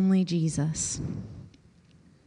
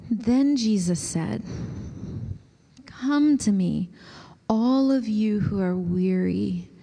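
slow, reverent reading with long pauses; slow scripture reading. Acted. Pastor reading scripture aloud for Lectio Divina, slow and reverent. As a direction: read the words slowly, letting them land. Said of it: "I'm gonna read it slowly".

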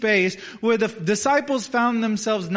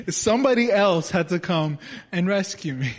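laughing. Real, not acted. Laughing at own story.

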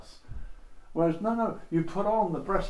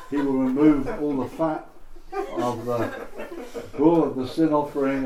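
reading through laughter; 5 dB louder than usual. Acted. A dull Bible reading, mock enthusiasm.

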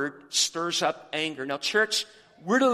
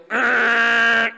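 loud, higher, sustained honk made with the voice; blaring horn imitation; 4 semitones higher, 9 dB louder than usual. Pastor mimicking his truck's horn for the congregation, loud blaring honk. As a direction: blast it out like an obnoxious truck horn. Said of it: "most obnoxious horn you've ever heard".

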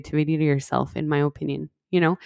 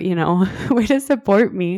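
sarcastic line broken by a laugh; repeating the jab with a laugh; laughing sarcasm. Retold or imitated. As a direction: laugh through the mock thanks. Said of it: "Which I was like".

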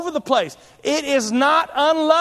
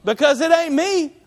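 offended wife; 4 semitones higher than usual. Retold or imitated. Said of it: "She'd be like".

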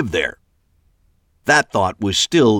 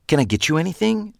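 Trish voice; 9 semitones higher, faster than usual. A narrator's reading.

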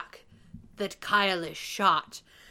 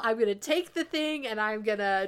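lightly voiced oblivious dad, pitched up; hammed-up rattling off of a dad's excuses; mocking dad; 6 semitones higher, 3 dB louder, faster than usual. Spoofing the sheriff talking to his son Kyle, mocking. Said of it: "it's just like".

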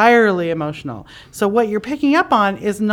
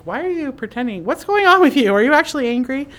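suspicious questioning; 5 semitones higher than usual. Retold or imitated. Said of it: "where you're like".

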